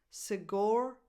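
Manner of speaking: "Sigor-" with the weight on GOR; "Sigor-", light start, stressed GOR; stress on second syllable. Shown as a demonstration. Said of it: "the stress goes on the second syllable".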